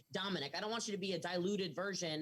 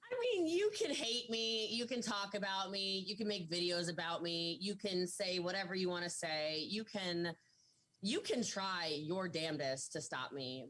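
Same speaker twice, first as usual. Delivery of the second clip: defiant. Real, not acted. Defiant message to haters.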